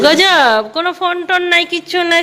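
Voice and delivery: loud, high, fast furious tirade; angry scolding. Real, not acted. Wife scolds her husband for arriving so late, loud angry tirade. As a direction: let him have it for coming home late.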